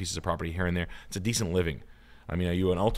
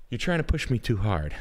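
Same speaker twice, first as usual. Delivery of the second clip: "You're trying to push me too hard" said louder, leaning on "trying"; louder protest; 4 semitones higher, 4 dB louder than usual. Shown as a demonstration. Protesting to the friend's impression request, louder.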